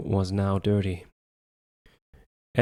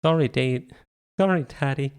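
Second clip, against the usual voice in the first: put-on sorry child; 5 semitones higher than usual. A narrator's reading. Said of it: "David said".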